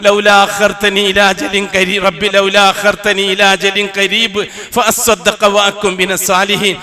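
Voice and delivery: slow, melodic Quran chant; Quranic recitation. Acted. Preacher reciting the verse to the congregation, chanted. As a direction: draw each Arabic word out in tajweed.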